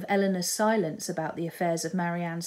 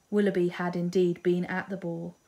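ordinary delivery

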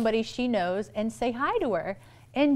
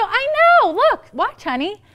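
high, overexcited mom chatter; match her squeal with sugary enthusiasm; gushing greeting; 11 semitones higher, 6 dB louder than usual. Retold or imitated. Mom models greeting another mom for daughter, hammed-up gushing.

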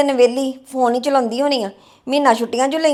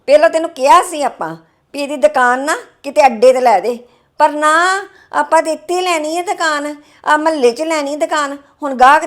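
raised, resentful complaining; annoyed scolding. Acted. Sister-in-law griping at husband's sister on the phone, irritated. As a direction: nag her about the old debt, bitterly. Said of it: "ਤੂੰ ਇੰਨੇ ਗੁੱਸੇ 'ਚ ਕਿਉਂ ਬੋਲਣ ਡਈ".

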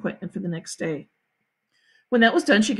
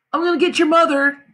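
put-on higher, raised boy's call; hollered; 5 semitones higher, 5 dB louder than usual. A narrator's reading. Jimmy running for the mother, raised holler. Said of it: "Jimmy hollered".

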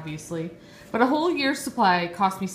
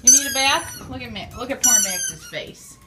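much higher cooing pet voice; 4 semitones higher, 5 dB louder than usual. Real, not acted. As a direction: gush over the dog's face. Cooing over dog.

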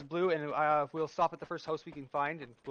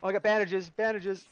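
excited, raised-pitch callout; too excited; 3 semitones higher, 4 dB louder than usual. Real, not acted. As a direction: blurt out the find excitedly. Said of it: "Sorry, I'm getting too excited".

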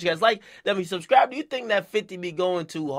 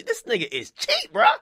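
mock squeal. Real, not acted. Mocking the rapper's stinginess to viewers, squeaky and high. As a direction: jump much higher into a squeaky mocking voice.

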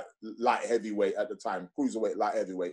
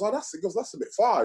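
mock friend's voice; 9 semitones higher than usual. Friend's quoted reaction retold.

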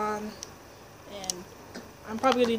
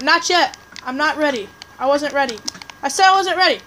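rising, louder pleading protest; 2 semitones higher, 5 dB louder than usual. Real, not acted. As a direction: complain louder each time. Attacked before ready.

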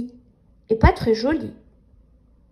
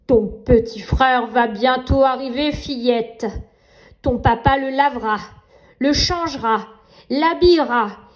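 nightmare voice; 3 dB louder than usual. Acted. Nightmare taunting the girl.

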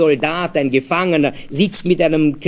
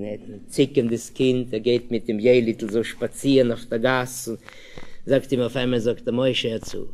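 ordinary talk, nothing marked

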